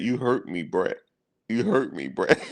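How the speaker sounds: mock imitation pitched well up, drawn out and pleading; hammed-up wounded whine, pitched high; slow wounded plea. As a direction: imitate a hurt old pass rusher, high and whiny. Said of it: "So he talked real slow".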